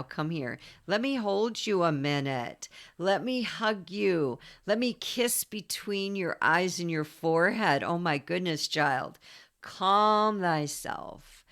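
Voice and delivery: a lightly voiced, gentle mother soothing a child; tender Cancer voice. Cancer comforting a troubled child, gently soothing. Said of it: "This is what Cancer would say right now".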